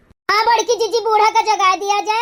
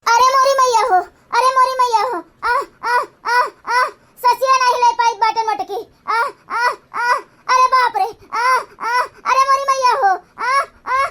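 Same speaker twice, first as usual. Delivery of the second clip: hammed-up groans of a fake heart attack; mock wailing. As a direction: moan and wail as if struck by a seizure. Old woman fakes attack again.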